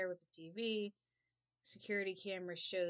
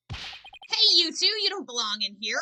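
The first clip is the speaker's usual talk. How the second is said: loud, higher shout at intruders; challenging shout; 9 semitones higher, 15 dB louder, slower than usual. Acted. Caretaker catching two strangers where they don't belong, challenging shout. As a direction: call them out sharply.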